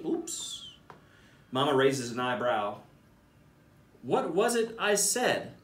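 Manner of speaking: put-on lively storybook reading for kids; animated bedtime-story narrator; read-aloud narration. A narrator's reading. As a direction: read it like a picture book to a class. Principal reads picture book aloud.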